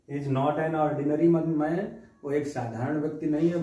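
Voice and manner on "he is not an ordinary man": "He is not an ordinary man" read very slowly, rising on man; slow example reading. Shown as a demonstration. Teacher reading the litotes example slowly to students. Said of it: "कहते ना litotes".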